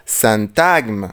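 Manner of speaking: سانتاجم said slowly with a nasal 'sã'; سانتاجم with nasal 'sã', n silent; slow careful demo. Shown as a demonstration. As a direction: spell out سانتاجم slowly, nasal first syllable. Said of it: "لما اقول مثلًا سانتاجم؟".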